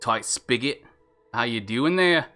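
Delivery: casual Kiwi accent sample; New Zealand accent. Shown as a demonstration. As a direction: try out New Zealand vowels. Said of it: "New Zealand".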